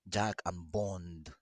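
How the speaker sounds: loud call to the dogs. Real, not acted. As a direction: call the dogs' names out loud. Calling the dogs over.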